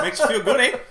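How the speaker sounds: high, loud mock Wisconsin; Wisconsin accent. Co-host vouching for the beer IV, mock Wisconsin accent. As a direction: tag it on like a Wisconsinite. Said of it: "they're like".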